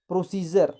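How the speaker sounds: प्रोसीजर with ज in the middle, pro-si-jar. Shown as a demonstration. Teacher models d read as ज in प्रोसीजर. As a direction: say प्रोसीजर with a ज sound for the d. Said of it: "इसको हम ज पढ़ रहे हैं".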